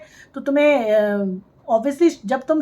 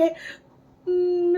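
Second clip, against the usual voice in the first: a slow, drawn-out fake whimper, softer; mock crying hum; 4 semitones higher, 5 dB quieter, much slower than usual. Mocking a vlogger who fakes crying on camera, slow fake whimper. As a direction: imitate a put-on sob as a long hum. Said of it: "ये ऐसे मुंह बना के".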